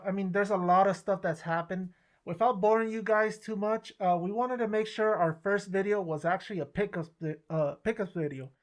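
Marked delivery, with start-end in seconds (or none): 2.2-7.3 muffled behind a mask; talking through a face mask. Real, not acted. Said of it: "It's kinda hard to talk with the ma-, with this mask". 7.5-8.5 muffled behind a mask; words dulled by a mask; through a mask. Real, not acted. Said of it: "It's kinda hard to talk with the ma-, with this mask".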